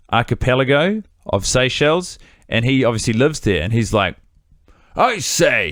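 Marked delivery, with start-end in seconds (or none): 5.0-5.7 a hint of thick British eccentric; lightly hammed-up old British accent; British-inflected French accent. Podcaster imitating crazy British islander, British accent inside French. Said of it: "very thick British accent inside of his French accent".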